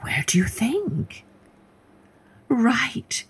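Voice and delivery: hushed, secretive storyteller whisper; whispered aside to the listeners; suspense whisper. A narrator's reading. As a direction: lean in and whisper the twist.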